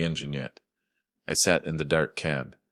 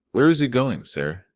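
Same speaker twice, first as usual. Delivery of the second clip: urgent question; 8 semitones higher, 4 dB louder than usual. Acted. Father demanding where his daughter is.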